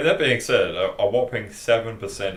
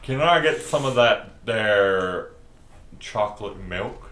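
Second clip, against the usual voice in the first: mock American customer; 2 semitones higher, 6 dB louder, slower than usual. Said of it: "They go".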